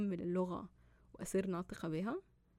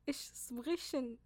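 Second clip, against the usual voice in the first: German phrase; 4 semitones higher, slower than usual. Shown as a demonstration. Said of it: "يعني أنا أتحدث الألمانية".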